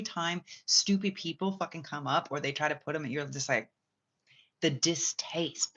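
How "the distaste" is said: slow whispered aside. Acted. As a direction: breathe it out slowly with disgust.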